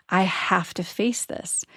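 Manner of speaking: hushed, breathy vow to herself; half-whispered self-talk, steeling herself; whispered resolve. Retold or imitated. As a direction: whisper it like a private promise. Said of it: "I said to myself".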